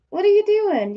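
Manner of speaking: high-pitched pet-talk question. Real, not acted. Owner questions wandering pet bird, high baby talk.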